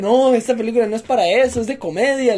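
retold insistent objection; retold reassurance. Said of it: "le digo yo".

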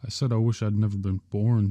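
insist, every word firm. Acted. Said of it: "George repeated firmly".

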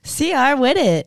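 slow, drawn out and sultry; sexy voice. Shown as a demonstration. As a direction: purr it out slowly. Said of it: "Oh, there you go".

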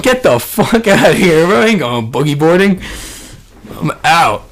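mock refusal. Retold refusal to go back.

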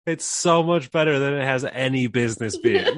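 laughing. Real, not acted. Raving, laughing.

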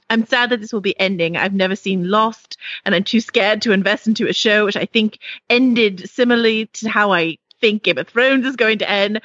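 put-on a lightly held British accent; reading a listener email in a put-on British accent. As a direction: read the whole review in a mock British accent. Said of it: "to do this review in a British accent".

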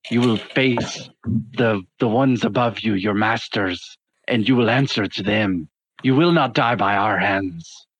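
a hint of an Australian accent, measured and grave. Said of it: "I went Australian".

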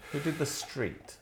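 slow, hushed whisper. Real, not acted. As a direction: whisper the question. Hushed aside mid conversation.

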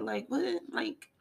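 high, fast exasperated sass; annoyed attitude. Retold or imitated. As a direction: brush them off, irritated. Voicing herself rebuffing men.

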